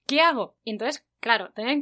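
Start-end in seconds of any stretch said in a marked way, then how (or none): 0.0-0.6 bewildered inner voice. Retold or imitated.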